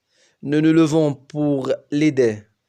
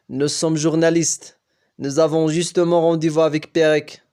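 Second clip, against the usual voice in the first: put-on louder, lightly American-accented French; a hint of an American coach in French; insistent coach with a light American accent; 4 dB louder than usual. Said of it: "dit-elle avec un accent américain".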